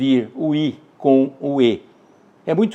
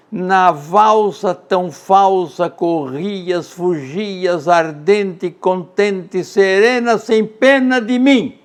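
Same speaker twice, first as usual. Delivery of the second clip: slow, lilting waltz rhythm; measured poetic reading; poem recitation; 4 semitones higher, slower than usual. Acted. Recites Casimiro de Abreu poem.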